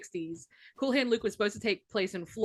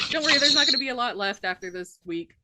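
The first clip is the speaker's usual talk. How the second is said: laughing; 4 semitones higher, 4 dB louder than usual. Real, not acted. Joking about Florida, laughing.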